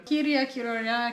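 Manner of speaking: slow, careful Finnish "Kirja, kirjoja"; Finnish word demo. Shown as a demonstration. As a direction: spell out "Kirja, kirjoja" slowly. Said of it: "Por exemplo, livro".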